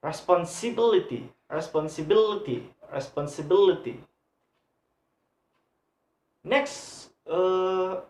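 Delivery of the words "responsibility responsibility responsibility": "Responsibility" with BIL, the third syllable from the end, punched; stress third-last syllable. Shown as a demonstration. Teacher showing where word stress falls, stressed BIL in "responsibility". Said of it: "put on the third syllable".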